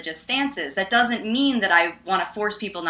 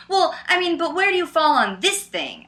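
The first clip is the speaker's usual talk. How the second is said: imitated challenge; 9 semitones higher than usual. Imitating the man's gotcha question.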